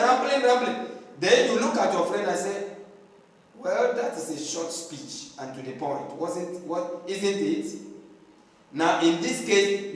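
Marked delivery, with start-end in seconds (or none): 3.6-7.8 ironic remark. Pretend. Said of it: "you are being ironic".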